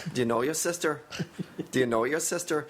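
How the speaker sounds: practised Northern Irish lilt; light Northern Irish imitation; Northern Irish accent. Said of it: "I think you gotta end high".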